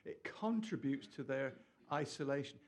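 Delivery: "contributes" picked out with emphasis; emphatic CONTRIBUTES. Real, not acted. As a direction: stress on "contributes". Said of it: "I don't know why I'm emphasizing this".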